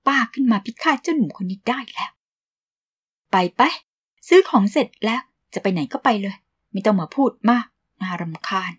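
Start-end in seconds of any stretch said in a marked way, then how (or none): 3.3-8.7 mock fussing. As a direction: shoo him away, grumpy auntie. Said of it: "พี่โวยวายแบบนี้เสมอเลยเหรอครับ".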